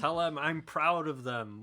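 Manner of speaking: wounded soldier gasping. Acted. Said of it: "why does she sound like she's about to die".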